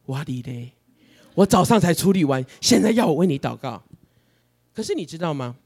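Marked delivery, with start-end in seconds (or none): 0.1-3.8 exasperated inner thought. Retold or imitated. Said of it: "我就心里想".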